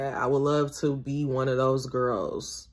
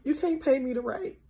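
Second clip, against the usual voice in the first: higher, softer echo; 10 semitones higher, 4 dB quieter than usual. Shown as a demonstration. Repeating the Walter Mosley motto to herself, higher and softer. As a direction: repeat "You can't pay me to write" pitched high and softer. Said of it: "repeated for emphasis".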